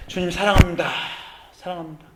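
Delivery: 1 tender love prayer. Retold or imitated. Final tender words to God.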